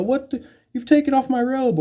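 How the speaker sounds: high, startled squeal of outrage; a hammed-up gasp of shock; mock freak-out. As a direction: shriek it like your robe was just torn off. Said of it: "You freak out and go".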